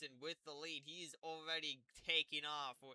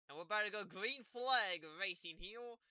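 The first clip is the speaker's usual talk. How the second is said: raised, louder race-start announcement; excited start call; 5 semitones higher, 5 dB louder than usual. Real, not acted. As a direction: build to the green flag, then ease down. Calling the green-flag race start.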